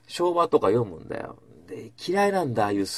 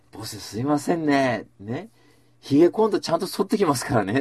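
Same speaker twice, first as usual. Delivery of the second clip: smiling apology; 3 semitones higher than usual. Retold or imitated. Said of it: "って言ったの、笑顔で。".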